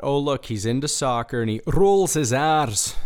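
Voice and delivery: put-on Scottish accent, rolled R's; generic Scot. Showing he can imitate a Scottish guy, broad Scottish accent. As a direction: roll the R's like a stock Scot. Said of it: "This is just your generic Scot".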